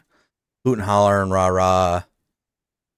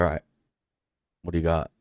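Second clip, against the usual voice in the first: softer, half-breathed sulky mumble imitating a pouty kid; mock sulky kid; 3 semitones lower, 5 dB quieter, much faster than usual. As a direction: toss it off like a sullen twelve-year-old with arms crossed, softer. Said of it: "I was so pouty".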